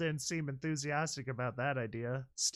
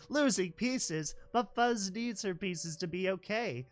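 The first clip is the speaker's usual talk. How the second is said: put-on higher, slow, alarmed child; 6 semitones higher than usual. Foal repeating the computer's words, alarmed. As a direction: echo it in shock. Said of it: "had alarmed".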